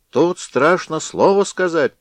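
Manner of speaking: high loud squeak; mock high bird squeak; squeaking beak. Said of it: "пискнул птичий нос".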